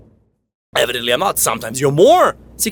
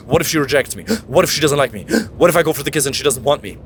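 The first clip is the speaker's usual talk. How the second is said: anxious gasping; 2 semitones lower, faster than usual. Shown as a demonstration. Showing the fearful associated inner voice, gasping anxiously. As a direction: panicky what-ifs with sharp gasps between. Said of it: "if you have the thought".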